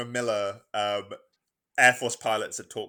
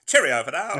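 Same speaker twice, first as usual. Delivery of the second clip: higher, louder jolly sign-off; pilot voice; 5 semitones higher, 6 dB louder than usual. Retold or imitated. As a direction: echo the aviator's cheerio. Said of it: "really stuck into that pilot voice".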